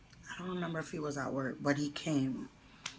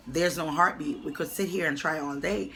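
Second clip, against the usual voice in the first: nasty; 5 dB louder than usual. Retold or imitated. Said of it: "She was really nasty to me".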